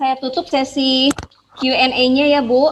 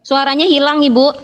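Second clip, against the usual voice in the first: calling out; 4 semitones higher, 6 dB louder than usual. Real, not acted. Calling over a bad connection.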